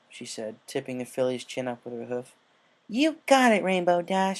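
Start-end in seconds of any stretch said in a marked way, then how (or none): 2.9-4.4 high, loud, confident; high filly voice, bold and sure. Acted. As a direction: perk up with full conviction. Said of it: "she said confidently".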